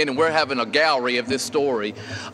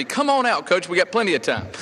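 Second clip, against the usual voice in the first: much higher-pitched, over-willing invitation; feigned eager welcome; 4 semitones higher than usual. Retold or imitated. Golf coach humoring his boss for job security, mock-eager. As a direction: play up an eager yes, pitch jumping up.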